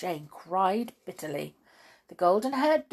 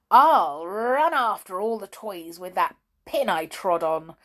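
louder, gleeful naughty doll voice; naughty doll plotting; 6 dB louder than usual. Acted. Amelia Jane plotting to frighten the toys, gleeful. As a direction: relish the mischief.

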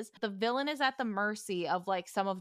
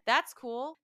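slightly higher, casual brush-off; nonchalant imitation; 4 semitones higher than usual. Retelling Freddie's reply to Neville, nonchalant. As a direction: brush it off, totally unbothered. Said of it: "He was so nonchalant".

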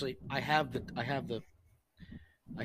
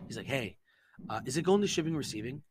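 super serious; 4 dB quieter than usual. Retold or imitated. Worried friend phoning about a package, serious. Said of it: "he's super fucking serious".

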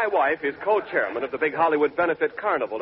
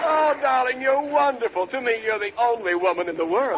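warm smooth leading man; 7 semitones higher than usual. Acted. Mock romantic exchange with wife.

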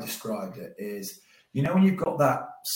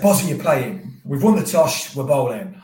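retold call; 3 semitones higher, 10 dB louder than usual.

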